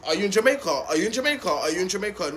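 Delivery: lightly mocking imitation of pestering people; mimicking nosy askers. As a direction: parrot a repeated, tiresome question. Mimics people who keep asking.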